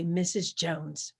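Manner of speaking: a slow, hushed opening to calm her; soft whisper. Shown as a demonstration. A worker gently whispering to an upset teacher. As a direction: whisper her name slowly. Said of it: "you look at Missus Jones and you say".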